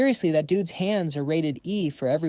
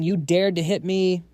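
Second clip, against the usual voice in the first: louder indignant yell from the ground; 3 semitones higher, 3 dB louder than usual. Acted. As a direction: keep yelling even while down. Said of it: "keeps yelling".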